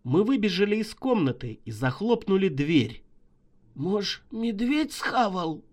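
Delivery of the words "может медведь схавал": trembling voice. Acted. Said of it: "дрожащим голосом ляпнул Шайба".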